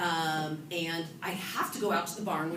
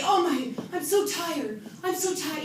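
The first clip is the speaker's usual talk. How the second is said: mock whine, pitched up; mock tired whining; whiny; 9 semitones higher, 4 dB louder than usual. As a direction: whine like an exhausted wife. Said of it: "You can't just whine like that".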